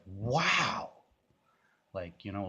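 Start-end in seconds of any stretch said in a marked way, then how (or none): 0.1-0.9 higher, louder mock amazement; a touch of a stunned mother; imitating mom's wow. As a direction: lightly act her surprised wow. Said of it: "She's like".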